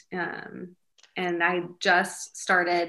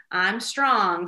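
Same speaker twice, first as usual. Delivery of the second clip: put-on firm affirmation for a child to repeat; mom leading affirmations; 4 dB louder than usual. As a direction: model it clearly for a little kid. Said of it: "Okay, repeat after me".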